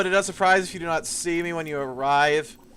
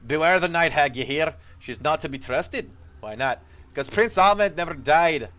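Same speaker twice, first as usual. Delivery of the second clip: gruff dry dwarf. Acted. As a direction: play an old dwarf soldier, rough and urgent. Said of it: "his voice gruff and dry".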